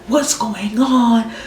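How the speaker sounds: mock a frantic mom, stretched out slowly; imitating screaming mom. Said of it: "She's screaming in my ear".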